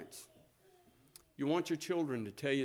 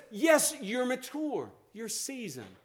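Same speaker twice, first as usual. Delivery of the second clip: gentle, tender; 6 semitones higher, 4 dB louder, slower than usual. Retold or imitated. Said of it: "he's so gentle with her".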